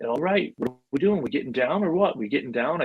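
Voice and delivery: a hint of the fast-talking film buddy; Vince Vaughn. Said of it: "just like he is in the movies".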